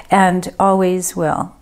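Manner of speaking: "always" drawn out slowly with weight; relayed message, lingering on "always"; stress on always. Retold or imitated. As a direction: lean slowly on the word "always". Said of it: "a real emphasis on the word always".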